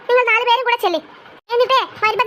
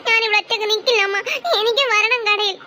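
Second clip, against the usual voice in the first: put-on crying child. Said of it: "ഇജ്ജെന്തിനാ ഇവിടെ കരയണത്?".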